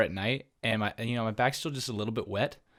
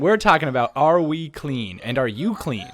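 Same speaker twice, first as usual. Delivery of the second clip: announcer voice; 2 semitones higher, 6 dB louder, slower than usual. Acted. Continues hyped podcast intro.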